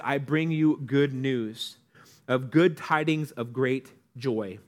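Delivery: slow, formal proclamation; solemn, old-fashioned angel's announcement; official scripture phrasing. Shown as a demonstration. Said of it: "They make it sound so official".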